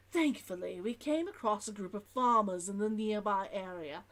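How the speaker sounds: put-on merchant's log in an Old London accent. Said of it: "I don't even know what accent this is".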